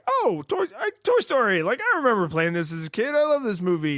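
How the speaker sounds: high-pitched, delighted burst of recognition; nostalgic excitement. Retold or imitated. Player retelling the moment Toy Story came back, excitedly. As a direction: gush with sudden fond recognition.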